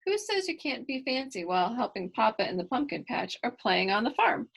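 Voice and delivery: lively storybook reading voice; reading to children. A narrator's reading. Reader voicing Kylie's story for young listeners, lively storybook reading. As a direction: read it to the kids with bright energy.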